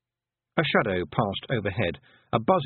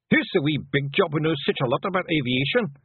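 higher pixie voice, a touch fed up; weary Hamish; 7 semitones higher, 3 dB louder than usual. A narrator's reading. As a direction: grumble after a bad landing. Hamish sarcastic.

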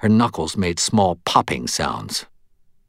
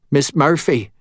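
gentle raised address; gently; 6 semitones higher, 4 dB louder than usual. A narrator's reading. Medium addresses shaken Murphy, gentle raised voice. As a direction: call her name kindly, pitched up. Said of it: "Mort said gently".

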